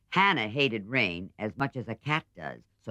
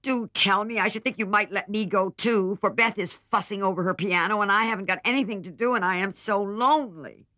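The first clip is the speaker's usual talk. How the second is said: put-on much higher, louder wheedling girl's voice; coaxingly; 11 semitones higher, 6 dB louder than usual. A narrator's reading. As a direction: coax her sister like a spoiled child. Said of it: "she said coaxingly".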